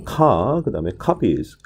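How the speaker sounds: "카" held alone, then "copies" opening the same way; match the start of "copies" to "카"; shared 'ka' sound. Shown as a demonstration. Teacher explaining the sound trap, 'ka' pronunciation shown in copies. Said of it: "첫 번째 음절의 발음이 카 발음으로".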